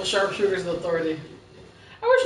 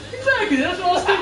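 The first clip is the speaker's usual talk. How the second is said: laughing while quoting; 9 semitones higher, faster than usual. Retold or imitated. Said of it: "He's like".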